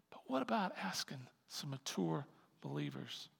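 whisper. Real, not acted. Aside posed as a question.

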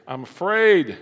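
sudden loud fearful outburst; Adam's fearful cry. Acted. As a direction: blurt it out loud like a frightened man. Adam confesses fear to God.

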